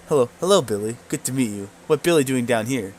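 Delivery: eager goblin chatter. Acted. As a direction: chirp out a goblin greeting. Goblin Gary voiced by GM.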